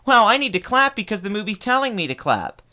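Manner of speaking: high-pitched mock amazement; mocking moviegoers. Streamer mocks audiences who react on cue, mock wonder.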